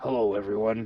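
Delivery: low, soft, hushed evil-sounding voice. Joking that the voice actor just reused his earlier character voice: evil Glamrock Freddy voice. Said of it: "I'm Glamrock Freddy with an evil voice now".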